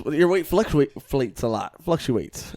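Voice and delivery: stumbling over the word "fluctuates"; tongue-tied. Real, not acted. Podcast host fumbles a word mid-remark, tongue-tied. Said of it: "are you having a stroke right now".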